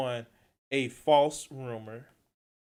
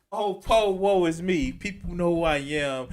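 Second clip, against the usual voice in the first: mock whiny; 4 semitones higher, 4 dB louder than usual. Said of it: "it's just whiny at this point".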